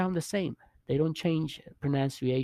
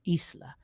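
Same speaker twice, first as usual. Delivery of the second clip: Isla as "EES-la"; stress on first syllable; 3 semitones higher, 3 dB quieter than usual. Shown as a demonstration. Teacher repeating for learners, Isla stressed "EES-la". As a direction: lean on the "ee" opening Isla. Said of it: "is stronger than the L A".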